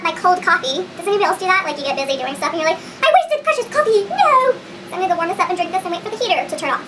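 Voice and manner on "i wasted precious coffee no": loud, high dramatic wail; over-the-top lament at high pitch; mock despair. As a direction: cry out in hammed-up anguish. Acting out dismay over cold coffee.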